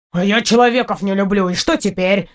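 mildly indignant cat voice; understated huffy retort in a cat character voice. A narrator's reading. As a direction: talk back, a touch affronted. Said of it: "возмутился мой новый друг".

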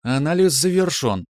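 calm synthetic announcement; ship computer voice. Acted. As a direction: read it like an onboard computer. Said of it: "Голос машины вновь привлёк".

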